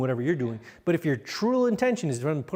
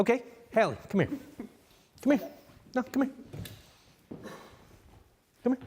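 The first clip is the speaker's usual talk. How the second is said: calm summons; 6 semitones higher, 3 dB quieter, faster than usual. Shown as a demonstration. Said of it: "what I did is I controlled the situation".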